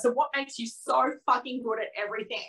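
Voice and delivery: a touch of a jealous tantrum, half-mock; retold tantrum. Telling her client about her jealousy, a mild mock tantrum. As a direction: replay the rant lightly, mostly in her own voice. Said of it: "I had a proper tantrum".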